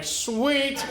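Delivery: high, drawn-out delight. Retold or imitated. Hunter seeing two free squirrels, mock delight. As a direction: relish the unexpected bonus.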